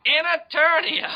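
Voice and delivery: high, slow booming announcer; dramatic announcer shout. Acted. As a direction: belt it like a trailer voiceover.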